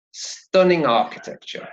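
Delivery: "stunning architecture" with ng linked into the vowel; "stunning architecture" joined as one, falling at the end; linked words. Shown as a demonstration. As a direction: run "stunning" straight into "architecture". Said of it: "there is also a liaison".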